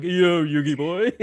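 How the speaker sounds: Pegasus impression. Fan imitating Pegasus for a podcast host. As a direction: ham up the dub villain's taunt.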